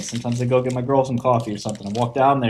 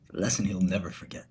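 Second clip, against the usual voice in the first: a soft, breathy menacing whisper; villainous whisper; 4 semitones lower, 8 dB quieter than usual. Acted. Gloating villain line.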